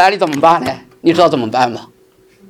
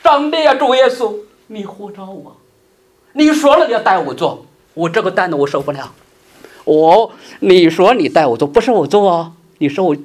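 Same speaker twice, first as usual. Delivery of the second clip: a touch of whining to God, mostly hushed; imitating a believer moaning in prayer; mock tearful prayer; 4 semitones higher than usual.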